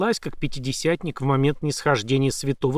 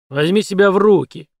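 громко, выше; одёргивает сообщника; резко бросает; 5 semitones higher, 7 dB louder than usual. A narrator's reading. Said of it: "бросил ему Шекет". (резкий окрик)

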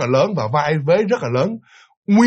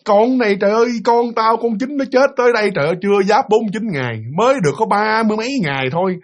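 higher, exasperated scolding; grandmother ranting; 5 semitones higher than usual. Retold or imitated. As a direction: vent outrage at the family. Grandmother ranting about her grandchild.

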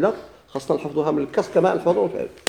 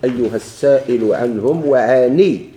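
quoting the verse; 3 dB louder, slower than usual. Shown as a demonstration. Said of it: "يقول الإمام رحمه الله".

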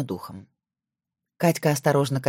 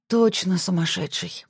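bewildered; 2 semitones higher, slower than usual. Acted. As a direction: say it at a loss, slowly. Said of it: "растерянно сказала Катька". (растерянно, медленно)

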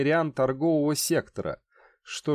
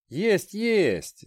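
higher, brisk and matter-of-fact; businesslike; 7 semitones higher than usual. Acted. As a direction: brush it off briskly. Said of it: "деловито подпихивал его Сим".

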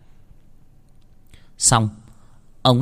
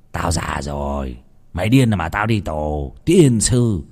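put-on old man grumbling; 4 semitones lower, slower than usual. Old uncle scolding the boys.

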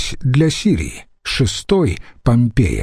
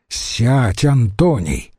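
tired; slower than usual. Acted. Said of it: "устало сказал Курион".

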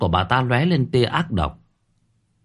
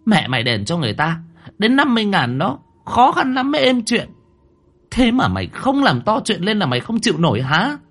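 much higher, fast, furious reproach; fierce scolding; 9 semitones higher than usual. A narrator's reading. Mother fiercely scolding her daughter over the money. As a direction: tear into the daughter. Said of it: "ánh mắt dữ dằn".

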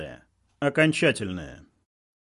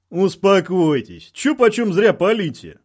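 loud, raised loudspeaker announcement; big voice calling for calm, pitched up; thundering voice; 5 semitones higher, 5 dB louder, slower than usual. A narrator's reading. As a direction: boom it out over a loudspeaker. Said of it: "раздался громовой голос из установки".

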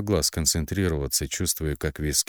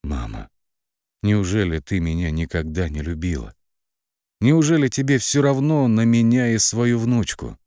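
hurt plea; 4 semitones higher, 5 dB louder than usual. A narrator's reading. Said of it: "прошептала".

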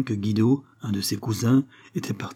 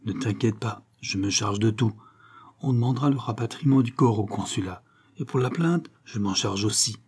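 murmured reassurance. Acted. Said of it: "lui glissa".

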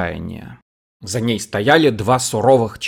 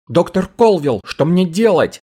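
higher, louder pleading scream; desperate cry; 7 semitones higher, 4 dB louder than usual. A narrator's reading. Cherry desperately cries out to Dr Colvill. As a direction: beg him for help in despair. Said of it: "отчаянно закричала Черри".

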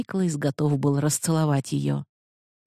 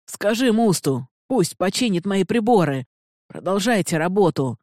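desperate shout; 4 semitones higher than usual. Acted. Prisoner calling his orders to Panaya, desperate shout. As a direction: shout your last wishes as you're dragged away. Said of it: "он отчаянно крикнул Панае".

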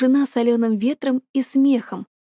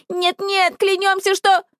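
much higher, rushed panicked vow; торопливо, в панике клянись; frantic swearing; 9 semitones higher than usual. A narrator's reading. Sisters frantically swear to Perseus. (испуганная скороговорка)

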